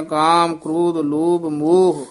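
ਕਾਮ ਕ੍ਰੋਧ ਲੋਭ ਮੋਹ as one group, falling on ਮੋਹ; pause after list. Shown as a demonstration. Teacher marking the verse break, pause after ਮੋਹ. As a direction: run the list, then rest after ਮੋਹ. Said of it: "ਇੱਥੇ ਵਿਸਰਾਮ ਹੈ।".

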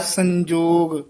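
ਸੰਜੋਗ said slow with a clear nasal n. Shown as a demonstration. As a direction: linger on the n of ਸੰਜੋਗ. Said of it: "ਟਿੱਪੀ ਲੱਗੀ ਹੋਈ ਹੈ".

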